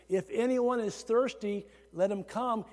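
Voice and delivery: imitating a yell, held back; mild imitated yell. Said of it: "He is literally yelling that".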